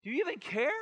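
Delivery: high, loud, exasperated cry; panicked disciples. Retold or imitated. Disciples shouting at sleeping Jesus, high and loud. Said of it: "we're like".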